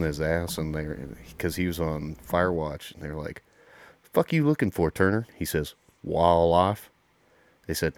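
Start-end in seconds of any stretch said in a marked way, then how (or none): 4.1-5.3 loud, higher-pitched mock drill instructor; drill instructor barking. Retold drill instructors jumping on recruit. 6.0-6.9 loud twangy Arkansas recruit; country twang. Retold or imitated. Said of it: "Kinda slow and twangy and country".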